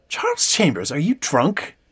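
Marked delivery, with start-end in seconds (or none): 0.1-0.9 sigh, then the full name in reproach; mock-scolding full name; sighing suspicion. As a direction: size up a friend who seems drunk. Suspects the visitor is drunk.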